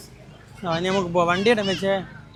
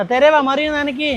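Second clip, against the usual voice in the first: put-on slow and higher, spelling it out for a toddler to copy; slow, high coaching voice for a small child; slow prompt for a child; 6 semitones higher than usual. Shown as a demonstration. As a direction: sing it out slowly so the little one repeats. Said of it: "തെരേ മറിയ നനയ്ക്ക് പറ".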